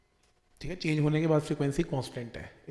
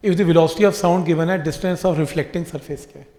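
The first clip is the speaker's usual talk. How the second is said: slow, loud question reading; 9 dB louder, slower than usual. Shown as a demonstration. Teacher reading a question to students, slow and loud. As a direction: slowly read the question out, loud and clear.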